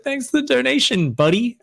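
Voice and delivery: high-pitched teasing imitation; mock taunt. Caster imitates Seether taunting Azure, mocking. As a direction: tease him in a put-on high voice. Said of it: "he was kind of taunting Azure".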